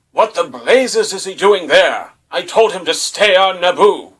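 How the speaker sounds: a hint of a stern mentor scolding; imitating Obi-Wan. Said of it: "he's just like".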